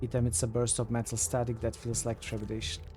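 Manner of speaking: measured storyteller reading aloud; game text narration. A narrator's reading. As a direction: read it out evenly, each phrase falling at the end.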